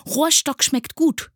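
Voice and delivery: very high, loud glee; delighted. A narrator's reading. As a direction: cheerfully relish the idea. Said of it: "freute sich das Sams". (freudig und frech)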